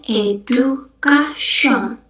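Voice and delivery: "education" as edukasoŋ; French-style "education"; French pronunciation. Shown as a demonstration. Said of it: "bahasa Prancis kita ngomongnya". (ucapkan "education" ala Prancis)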